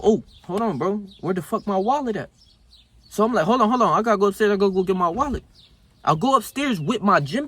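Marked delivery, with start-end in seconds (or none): 0.0-5.4 retold panic. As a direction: replay the frantic scramble for the wallet, pitched up. Panicking over forgotten wallet retold.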